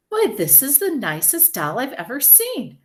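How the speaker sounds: high, swooping, delighted voice; admiring lady shopper. A narrator's reading. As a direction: gush over the doll.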